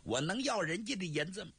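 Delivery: high, stammering flustered excuse; nervous stammer. Acted. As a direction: scramble for an excuse, voice jumping up. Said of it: "赵壁下巴壳有点抖了，说不上来了". (结结巴巴、慌张地辩解)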